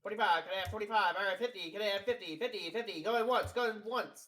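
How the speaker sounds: lightly imitating an auctioneer calling bids. Teasing a friend's rambling, mild auctioneer voice. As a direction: rattle off bids like a livestock auctioneer. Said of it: "it sounded like an auctioneer".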